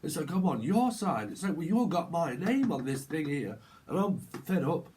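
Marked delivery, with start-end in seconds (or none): 0.3-1.3 raised, slow mock retort; drawn-out argumentative reply; council estate argument. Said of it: "this council estate type argument". 1.6-4.9 lightly acted fed-up retort; put-on argumentative grievance; council estate argument. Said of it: "this council estate type argument".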